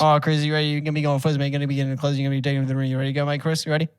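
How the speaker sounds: hammed-up Australian host; Australian accent. Host briefing Chris before the race, Australian accent. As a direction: rattle it off as an Aussie presenter. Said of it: "we need Australian dudes".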